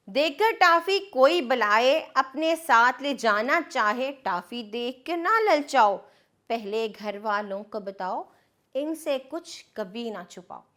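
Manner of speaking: put-on sing-song reading of a children's rhyme; lilting nursery-poem delivery; poem recitation. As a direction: recite it rhythmically for small kids. Poem verse continues.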